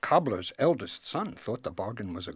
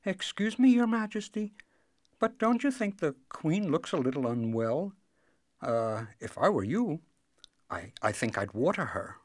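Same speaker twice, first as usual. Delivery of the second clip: hesitant, polite, starting higher and settling; timid youngest son; 9 semitones higher, 4 dB louder than usual. A narrator's reading. Youngest son politely advises the king about queen, timidly. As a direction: venture the suggestion haltingly. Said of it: "The youngest son said timidly".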